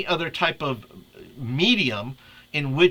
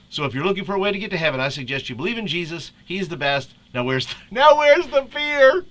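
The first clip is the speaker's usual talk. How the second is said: fast, hammed-up cartoon read; Homer Simpson voice; 5 semitones higher, 4 dB louder than usual. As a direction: rush it like a goofy cartoon dad. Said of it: "In Homer's voice".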